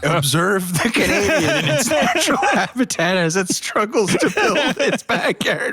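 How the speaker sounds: hushed wildlife documentary narration; lightly voiced nature show host; nature documentary narrator. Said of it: "Some National Geographic crew".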